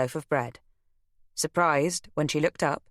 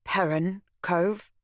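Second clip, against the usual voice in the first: slow, stunned question; stunned echo; 4 semitones higher, slower than usual. Acted. Beth hears the name of the cove, stunned. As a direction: repeat it as if the floor dropped. I felt suspended in time.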